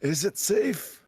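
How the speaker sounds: creepy movie quote. Pretend. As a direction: draw it out like a villain. Quoting a movie line in voice.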